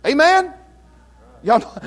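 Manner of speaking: ordinary delivery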